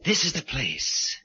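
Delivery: macabre soliloquy with long pauses; brooding killer. Acted. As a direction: intone it like dark poetry. Killer chooses his place, soliloquy.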